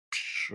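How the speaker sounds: soft voiceless burst of air; quick, quiet mock gasp; imitated shocked gasp. Two buyers reacting to the seller, imitated shocked gasp. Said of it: "shocked gasp".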